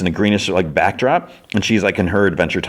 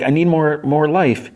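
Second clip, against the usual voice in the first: higher, strained-for-time plea; retold urgency; 8 semitones higher than usual. Huntress pleads for help reviving Finn, acted urgency. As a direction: act out a desperate healer's plea. Healer desperate for more life.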